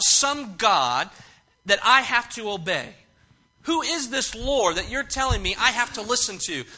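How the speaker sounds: mock-haughty demand, leaning on each repeated phrase; condescending. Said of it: "He's asking in a very condescending way".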